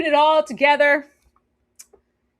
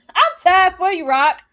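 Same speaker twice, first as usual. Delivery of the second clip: mock sympathetic; 8 semitones higher, 6 dB louder than usual. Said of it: "it's like".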